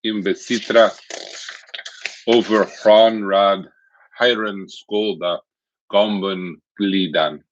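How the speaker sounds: slow, chanted Old English recitation with a fake German accent; Old English read like a fake German accent; bad Old English accent. Shown as a demonstration. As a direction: declaim the poem in mock Old English. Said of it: "in my relatively bad Old English accent, kind of a fake German accent".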